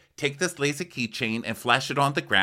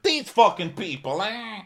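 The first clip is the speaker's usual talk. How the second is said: mock grumble; 12 semitones higher than usual. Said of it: "he's like".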